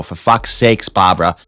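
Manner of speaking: exasperated shout. Acted. Fed up at wife.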